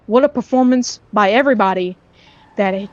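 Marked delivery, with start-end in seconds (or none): 0.1-1.0 excited voice cracking. Real, not acted. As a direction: voice cracking mid-sentence. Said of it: "Sorry for the voice crack there".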